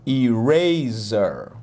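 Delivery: Eraser stretched out slowly, i-RAY-zer. Shown as a demonstration. Teacher drawing out eraser slowly for students to copy. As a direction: draw out Eraser syllable by syllable. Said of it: "slow model take".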